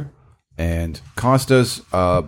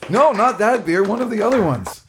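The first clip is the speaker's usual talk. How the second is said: mock picky; 11 semitones higher than usual. Teasing, voicing picky friend.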